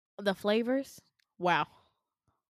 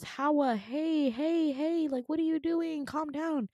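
higher, placating voice; imitated doctor intervening; 6 semitones higher, slower than usual. Doctor steps in on a fight, mock placating. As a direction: mimic someone trying to calm a scene.

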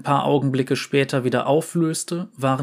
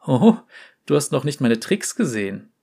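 verspielt. Acted. Fiaram kündigt Tricks an.

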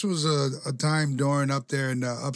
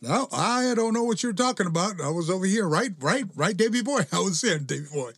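high, mock innocent denial; innocent Owen; 6 semitones higher than usual. Owen denying the prank to Davey Boy, high mock innocence. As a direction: play dumb sweetly. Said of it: "sitting there with peacefully".

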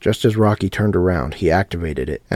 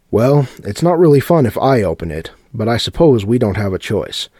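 louder, higher mock shrug; mock reluctant; 5 semitones higher, 6 dB louder than usual. A narrator's reading. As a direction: play to the crowd, mock reluctant. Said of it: "shrugging his shoulders at the audience".

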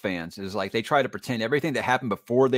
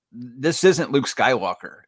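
put-on kid's verdict; much slower than usual. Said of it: "He's like".

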